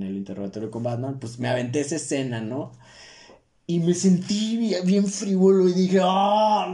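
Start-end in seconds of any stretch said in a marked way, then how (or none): 3.7-6.0 excited. Real, not acted. Proud of his Joker scene. 6.0-6.7 triumphant. Retold or imitated. Quoting his own triumphant thought.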